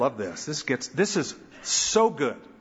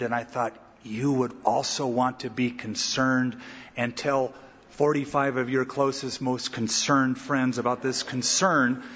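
mock concerned gossip; 3 semitones lower than usual. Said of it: "it's couched in".

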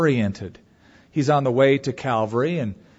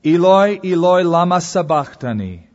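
a raised, anguished call of Eloi; loud cry; 4 semitones higher, 7 dB louder than usual. A narrator's reading. Preacher voicing Jesus crying out from the cross, loud and anguished. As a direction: cry the name out across the dark. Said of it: "Jesus cried out in a loud voice".

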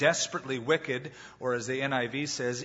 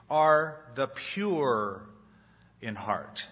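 slow emphatic reading; much slower than usual. Shown as a demonstration. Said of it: "slow, emphatic reading of the verse".

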